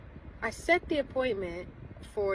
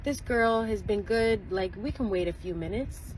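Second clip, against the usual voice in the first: indignant retelling; 4 semitones higher than usual. Retold or imitated. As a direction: make her case, worked up. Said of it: "I'm like".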